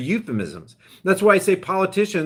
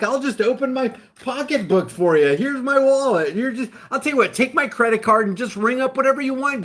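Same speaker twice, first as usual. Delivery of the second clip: higher, mock-eager gullible voice, overly willing; sarcastic naive citizen; 5 semitones higher than usual. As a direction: ham up a sucker offering everything to the government. Sarcastic eager citizen handing over rights.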